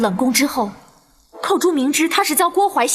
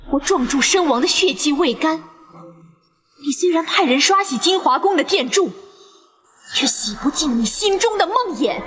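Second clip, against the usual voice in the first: usual speaking voice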